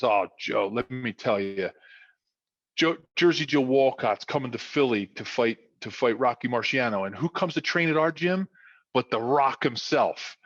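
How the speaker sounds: lightly voiced South Philly dad spinning a yarn; South Philly storyteller. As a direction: reel the listener in, a touch of South Philly. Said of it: "with his South Philly, like, storytelling capabilities".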